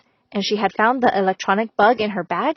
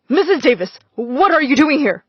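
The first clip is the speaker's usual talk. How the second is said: surprised, displeased; 4 semitones higher, 4 dB louder than usual. Acted. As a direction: caught off guard and annoyed. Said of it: "sounded surprised and not at all happy".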